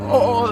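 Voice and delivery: high mock wail; imitated crying. Telling viewers how he cried, mock wail. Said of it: "I was crying".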